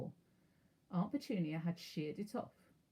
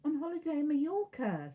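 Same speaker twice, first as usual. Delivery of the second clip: a sharp, higher snap; snapped; 9 semitones higher, 4 dB louder than usual. A narrator's reading. Aunt snapping back at her husband, curt and sharp. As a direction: cut him off curtly. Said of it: "snapped Aunt Petunia".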